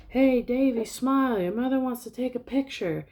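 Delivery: high, loud voice of an eager parent; parent calling out. Retold or imitated. Parent telling Davy to smile for a picture, high and loud. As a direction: call to the kid, high and insistent. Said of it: "Davy's parents are like".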